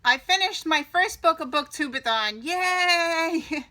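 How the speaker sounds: loud happy cheer; excited. Real, not acted. Celebrating finishing book.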